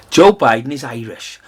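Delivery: laughing as he mimics the claim; ridiculing the claim with a laugh; mocking laugh. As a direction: scoff through a chuckle. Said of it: "No, he's not bloody Irish".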